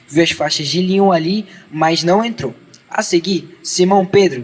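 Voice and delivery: measured read-aloud Bible narration; even scripture-reading cadence with falling phrase ends. A narrator's reading.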